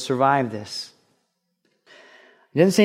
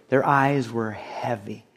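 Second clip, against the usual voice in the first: slow, softer "Their eyes were heavy"; slow, weighty emphasis; 3 semitones lower, 5 dB quieter, slower than usual. Shown as a demonstration. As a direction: let "heavy" drag, soft and low. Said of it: "think about that phrase".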